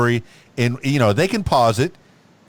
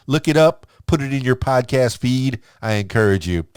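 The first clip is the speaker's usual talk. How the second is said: hyped outro shout-out to the party people; upbeat podcast host plug. Acted. Host plugging a guest's podcast to listeners, upbeat announcer read. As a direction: sell the show like a radio host.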